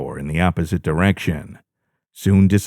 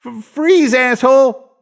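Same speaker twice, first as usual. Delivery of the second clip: barked order, higher and louder; shaky gun-point command; 4 dB louder than usual. A narrator's reading. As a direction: snap the order at the guard. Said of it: "my brother ordered".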